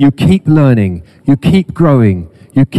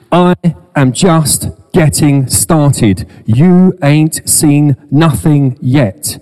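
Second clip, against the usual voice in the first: slow, higher home counties accent voicing God; 4 semitones higher, much slower than usual. Preacher voicing God to the church, slow home counties accent. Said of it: "if he spoke in a home counties type accent".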